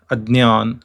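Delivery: Adnyan with a d before ny; Adnyan, d-n-y cluster; Maharashtrian pronunciation. Shown as a demonstration. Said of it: "Maharashtra, it is pronounced as".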